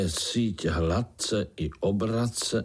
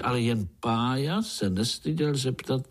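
plain reading voice

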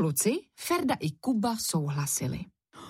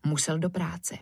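usual speaking voice

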